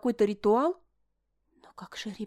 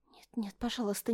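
breathless, unvoiced begging; pleading whisper; 6 dB quieter than usual. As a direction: beg in a frightened whisper. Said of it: "начала снова молить я".

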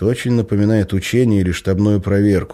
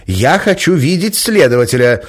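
loud, high insistent demand; insist, don't back down; 9 semitones higher, 6 dB louder than usual. Acted. Nikolaeva insists on seeing the investigator, loudly. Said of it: "настаивала Николаева".

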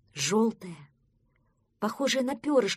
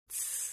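sharp unvoiced shush; a friend shushes the duckling sharply; hushing hiss; 15 dB quieter than usual. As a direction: hush the little one at once. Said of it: "шикнул на него Простодурсон".

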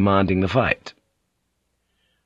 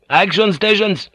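shouted order; 11 semitones higher than usual. A narrator's reading. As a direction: bellow the order through cupped hands. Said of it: "cupped his hands and shouted".

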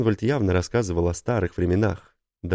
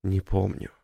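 flat, even. Acted. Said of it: "сказал он ровно".

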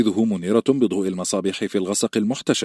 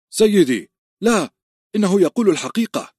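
much higher, louder urgent cry; eager shout; 11 semitones higher, 5 dB louder than usual. Acted. A servant rushing in to stop Ned's dagger, urgent high shout. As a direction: call out desperately to stop him. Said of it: "صاح صوت ما بلهفة".

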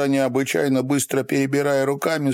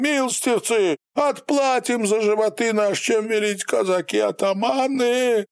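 begging; 9 semitones higher than usual. A narrator's reading. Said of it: "взмолился".

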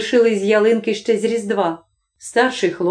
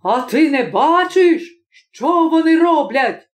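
indignant; 6 semitones higher than usual. Acted. Husband arguing with wife.

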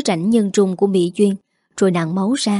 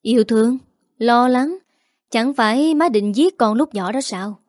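a light, cold sneer echoing her words; sneering reply; 2 semitones higher than usual. Acted. Son mocking his mother's words, mild sneer. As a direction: throw her words back with mild scorn. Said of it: "Liêm cười nhạt đáp".

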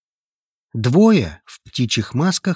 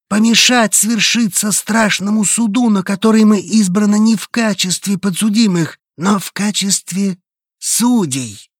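higher, louder solemn cult preacher; hoarse solemn voice; 9 semitones higher, 4 dB louder than usual. Acted. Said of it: "хриплым, торжественным голосом". (хриплый торжественный голос проповедника)

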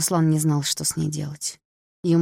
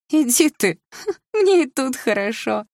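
high, louder, laughing through the words; 8 semitones higher, 4 dB louder, slower than usual. A narrator's reading. Drunk sister laughing off her brother's order, high and loud. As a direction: brush him off with a laugh. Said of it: "Саша расхохоталась".

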